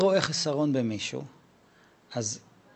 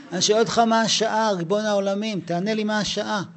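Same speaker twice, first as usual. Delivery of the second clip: exasperated plea; 5 semitones higher than usual. Retold or imitated. Rabbi's own exasperated plea.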